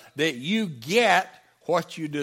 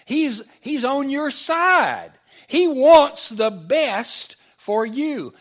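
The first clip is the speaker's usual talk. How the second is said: reassuring Jesus; 7 semitones higher, 7 dB louder, slower than usual. Retold or imitated. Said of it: "he said".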